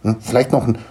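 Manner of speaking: a touch of a proud little gnome; lightly voiced gnome father. Gnome introducing his children to Niklas, lightly voiced.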